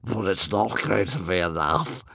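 relishing dragon voice; gloating. A narrator's reading. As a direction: gloat over the bad news. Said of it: "gloated One Eye with relish".

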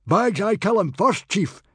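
very high, loud shout; eager yell. A narrator's reading. Warrior begs chief for first kill, yelling. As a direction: yell to claim first turn. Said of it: "yelled Baggy Bum the beer belly".

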